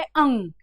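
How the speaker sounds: अंग as a nasal "ung"; correct pronunciation demo. Shown as a demonstration. Teacher correcting students' mistake, correct pronunciation demo. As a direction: say अंग slowly onto a held "ng". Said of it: "इसका सही उच्चारण क्या है".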